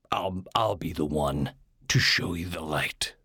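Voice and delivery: retold line in a whisper. Guy retells his promise to girlfriend, whispered. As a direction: breathe it out with no voice. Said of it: "I just was like".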